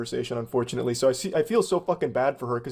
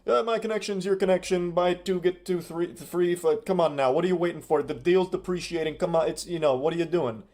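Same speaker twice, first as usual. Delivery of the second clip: slick used car salesman; 3 semitones higher than usual. Retold or imitated. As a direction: sell it like a pushy car dealer. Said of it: "full car salesman pitch mode right now with the hard sell".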